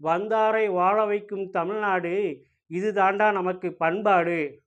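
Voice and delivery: slow, drawn-out hero punch dialogue; swaggering movie one liner. Pretend. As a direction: deliver it like a mass movie hero. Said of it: "அப்போ".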